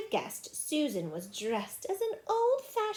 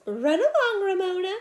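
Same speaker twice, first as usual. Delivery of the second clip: higher, louder mother's call; 8 semitones higher, 8 dB louder than usual. Acted. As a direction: call a child along, raised voice. Mother calling to her child.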